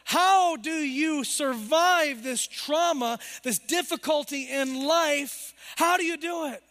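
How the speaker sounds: high, loud and slow bewildered question; the baffled world asking a believer how they survive, high and slow; confounded. Acted. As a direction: ask it in disbelief, drawing it out. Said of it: "the world is confounded and says".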